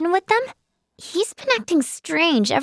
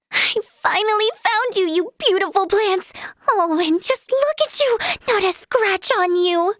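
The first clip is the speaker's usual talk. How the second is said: higher, cooing adoration; gushing delight; 4 semitones higher than usual. Acted. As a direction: fawn over a long-sought treasure. Gushing over plants finally found.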